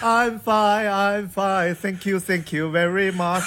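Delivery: affected put-on English accent. Imitating a man who answers the phone in showy English: imitating affected put-on English. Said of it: "有点装的那种英语".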